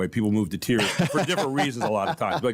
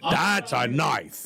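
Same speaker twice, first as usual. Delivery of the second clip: put-on Australian accent; much slower than usual. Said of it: "Paul Hogan can say Austra".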